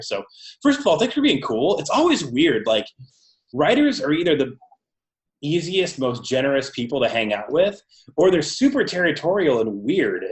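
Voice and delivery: tinny audio through laptop speakers; lo-fi recording over a laptop. Real, not acted. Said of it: "this was recorded through the laptop speakers".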